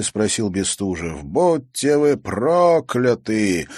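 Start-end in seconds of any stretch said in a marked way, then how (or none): 1.2-3.7 loud, high, slow cursing; slow curse. A narrator's reading. Pelt curses his captors in fury. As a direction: spit out the curse slowly.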